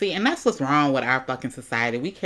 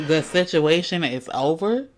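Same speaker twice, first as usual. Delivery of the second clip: incredulous echo; 3 semitones higher, 4 dB louder than usual. Retold or imitated. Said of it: "real interesting way to talk".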